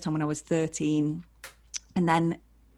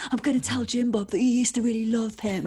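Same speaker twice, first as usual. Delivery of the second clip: teasing friend; 5 semitones higher than usual. Retold or imitated. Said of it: "being like".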